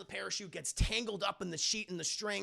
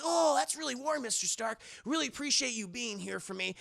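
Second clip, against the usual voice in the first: higher, grateful youngster voice; Peter Parker; 6 semitones higher than usual. Retold or imitated. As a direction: imitate an earnest kid thanking a mentor. Peter gratefully thanks Stark.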